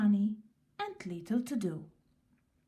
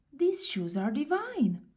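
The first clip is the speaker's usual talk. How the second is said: delighted; 5 semitones higher than usual. Acted. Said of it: "he cried".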